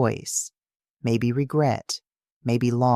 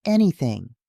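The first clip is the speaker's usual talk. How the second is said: higher, pleading repeat through tears; tearful emphasis; 4 semitones higher than usual. Acted. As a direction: lean harder into the repeated word. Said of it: "and now I'm crying too".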